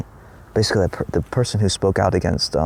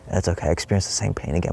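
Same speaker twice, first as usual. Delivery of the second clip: soothing animal voice; 4 dB quieter than usual. Retold or imitated. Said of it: "It's almost like".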